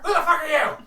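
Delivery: high, loud kobold snapping with a laugh; angry kobold. Acted. Kobold challenges the strangers, high and loud. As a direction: bark it out high like the paranoid kobold.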